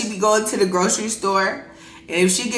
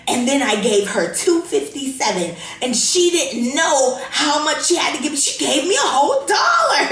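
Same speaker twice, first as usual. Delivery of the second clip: imitating mom; 5 semitones higher than usual. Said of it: "She'll come in and be like".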